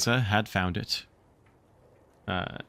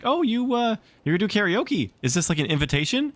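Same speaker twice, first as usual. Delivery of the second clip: teasing friend; 12 semitones higher, 4 dB louder than usual. Retold or imitated. Dance friend quoted, teasing.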